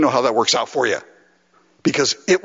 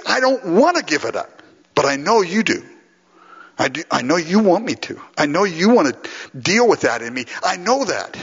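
higher-pitched pleading, only a touch of brokenness; tearful confession, retold; 3 semitones higher than usual. Preacher retelling his struggle with God, earnest pleading confession. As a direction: plead reluctantly with God, without real tears. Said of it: "weeping, tears, brokenness, just saying".

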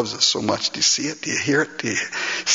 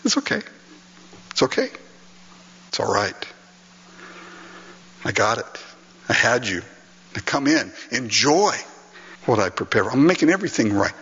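voicing Jesus; 3 semitones lower than usual. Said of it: "have Jesus look at you and say".

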